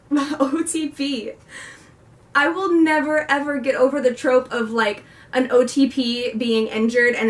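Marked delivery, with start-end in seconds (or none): 0.1-4.5 gushing fangirl. Retold or imitated. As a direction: savor each letter like a swoon. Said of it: "I'm like".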